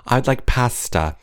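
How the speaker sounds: lightly put-on British, short A; slow, careful mock British; British accent. Shown as a demonstration. Trying out British words, lightly British accent. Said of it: "they say pasta".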